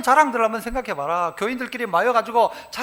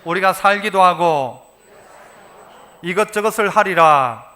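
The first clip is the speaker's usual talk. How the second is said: call-and-response line; 5 semitones lower, 5 dB louder than usual. Shown as a demonstration. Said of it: "따라서 해봅시다".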